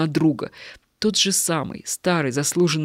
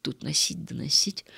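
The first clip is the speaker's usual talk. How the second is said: softer, mumbled grumble; muttering; 3 semitones lower, 7 dB quieter than usual. Acted. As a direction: grumble it half to yourself. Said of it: "пробормотал нищий".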